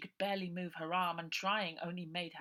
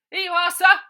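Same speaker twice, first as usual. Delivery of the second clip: high, loud lackey voice; high, loud servant; eager henchman; 22 dB louder than usual. Acted. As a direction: answer the boss like a dim lackey. Henchman Bill answers.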